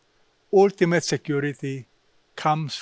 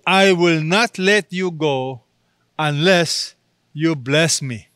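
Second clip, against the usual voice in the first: slowed down, every word held; cling to each word, slowly; slow, deliberate prayer of Jacob; slow, pleading resolve; slower than usual. Shown as a demonstration. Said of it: "Notice how he prayed".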